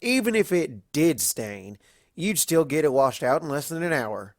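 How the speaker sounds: scoffing Applejack. Acted. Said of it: "Applejack scoffed".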